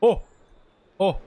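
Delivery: loud, excited oh cries; surprised shouts. Real, not acted. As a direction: gasp out in delight. Reacting to character appearing.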